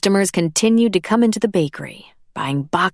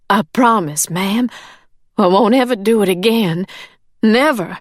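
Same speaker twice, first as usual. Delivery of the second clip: pleading; 4 semitones higher, 4 dB louder than usual. Acted. Maid pleading in tears.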